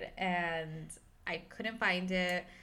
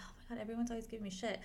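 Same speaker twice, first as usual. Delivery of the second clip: fast exasperated rant; 7 dB quieter, much faster than usual. Retold or imitated. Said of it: "I'm like".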